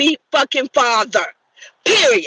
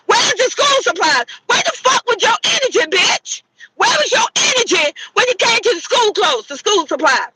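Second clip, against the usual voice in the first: higher, shouted demand; raised furious shout; angry rant; 5 semitones higher than usual. Real, not acted. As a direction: yell the question at the deadbeat. Ranting at absent father.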